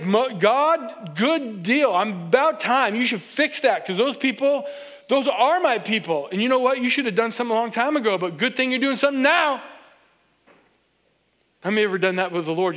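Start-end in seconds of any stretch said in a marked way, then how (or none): 0.0-9.6 Moses grumbling that it's about time; preacher playing Moses as cheeky and impatient; sassy impatience. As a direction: needle God like an impatient shepherd. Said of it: "He's like".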